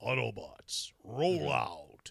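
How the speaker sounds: raspy, grainy, creaky robot voice. Trying to do a good Optimus: Optimus Prime voice. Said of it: "I can't get that Peter Cullen deep".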